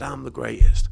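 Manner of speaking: loud boastful declaration; loud champion's boast; Muhammad Ali boast. Retold or imitated. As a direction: proclaim it like a champion. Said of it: "Muhammad Ali said".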